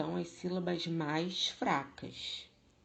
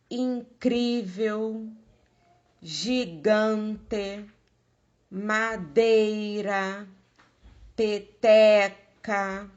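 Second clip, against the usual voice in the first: incrível, gigante, madeira, peteca slow and loud, second-last syllable drawn out; stress on penultimate syllable; 3 semitones higher, 9 dB louder, much slower than usual. Shown as a demonstration. Teacher listing paroxítona examples, incrível, gigante, madeira, peteca loudly stressed second-last. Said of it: "é a penúltima".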